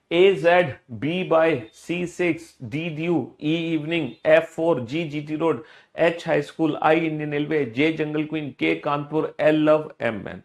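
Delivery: rhythmic drill, pair after pair; reading out loud. Shown as a demonstration. Teacher models five-times reading for pupils, reading out loud. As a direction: chant the list like a memory drill. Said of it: "जैसे मैंने जोर जोर से बोल के पढ़ा".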